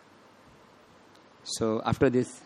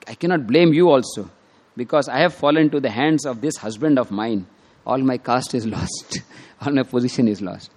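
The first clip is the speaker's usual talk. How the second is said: upset scolding. Retold or imitated. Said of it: "So she was very upset".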